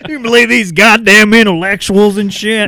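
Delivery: high, loud caricature of disgust; hammed-up indignant griping; ranting neighbor. Co-host as the neighbor griping at intellectuals, outraged. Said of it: "He's like".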